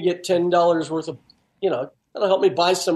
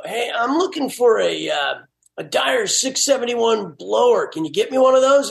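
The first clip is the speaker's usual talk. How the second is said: higher-pitched prank caller's voice; changed voice; 4 semitones higher than usual. Retold or imitated. Prank-calling brother-in-law at the parts store, changed voice. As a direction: disguise your voice a little, pitched up. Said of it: "I'd change my voice and I'd go".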